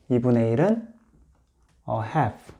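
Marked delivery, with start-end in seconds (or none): 1.9-2.5 "a half" said slowly, softer and apart; "a half" spoken clearly for students to copy; model pronunciation. Shown as a demonstration. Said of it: "이렇게 읽는데요".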